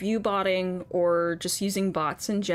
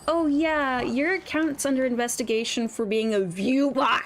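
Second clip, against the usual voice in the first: mocking Twitch email; 4 semitones higher than usual. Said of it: "an email that essentially goes".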